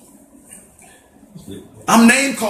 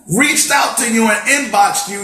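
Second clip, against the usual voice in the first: frustrated raised voice; 3 semitones higher than usual. Real, not acted. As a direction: push it at them, hurt and angry. Angry rant at ignoring friends.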